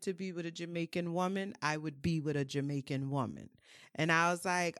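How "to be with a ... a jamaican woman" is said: a self-confessed poor Jamaican accent, lightly put on; bad Jamaican accent. Wife quoting her Jamaican husband's reassurance, in a bad Jamaican accent. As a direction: imitate the husband in a clumsy Jamaican lilt. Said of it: "this is my horrible Jamaican accent".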